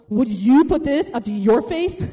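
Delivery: slow, emphatic mock indignation; pointed challenge. The speaker holding camera up to the guard, pointed challenge. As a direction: space it out, leaning on the key words.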